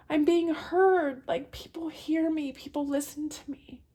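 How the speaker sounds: overwhelmed with relief, crying it out; real sobbing whisper. Real, not acted. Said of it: "Sorry, I get emotional".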